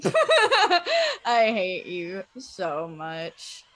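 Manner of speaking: laughing through the words; drawn-out, laughing mock hate. Real, not acted. Jar slips, mock anger.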